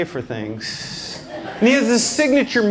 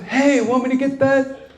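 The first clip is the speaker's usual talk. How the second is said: high, cowboy-ish offer to pay; lightly voiced dad playing a Western hero; dad's signature move; 7 semitones higher than usual. Dad offering to pay the check, in a put-on Western voice. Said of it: "So he does his signature move".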